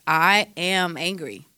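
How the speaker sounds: slow, even and steady, no yelling; calm statement of anger. Shown as a demonstration. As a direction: say I am angry calmly and slowly. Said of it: "you can do that with three words".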